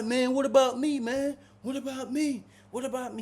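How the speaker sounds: high, loud fake wail; hammed-up sobbing plea; mock crying. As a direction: play a big guy crying to be taken. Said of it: "he crying".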